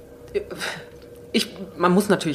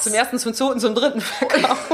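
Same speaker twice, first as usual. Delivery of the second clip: auctioneer; 3 semitones higher than usual. Pretend. Mock auction of the drunk guest.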